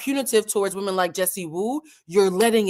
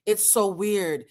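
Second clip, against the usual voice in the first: put-on slight British accent; much slower than usual. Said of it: "is there a British accent?".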